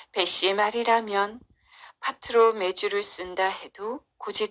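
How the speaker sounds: measured storybook narration with clear phrase pauses; story narration. A narrator's reading. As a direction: tell it like a folktale for children. Narrates a children's folktale.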